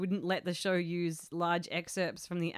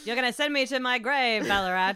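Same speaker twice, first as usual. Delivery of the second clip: dramatic director voice; 3 semitones higher, 8 dB louder than usual. Pretend. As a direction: ham up a diva director. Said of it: "I can imagine Llewellyn Sinclair".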